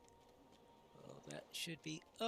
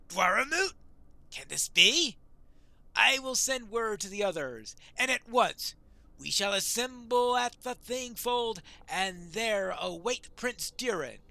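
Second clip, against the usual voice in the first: astonished question into firm, loud resolve; higher, louder, proclaim the muster; rousing dwarf warrior; 3 semitones higher, 8 dB louder than usual. Acted. Dwarf answers the prince's summons, rousing.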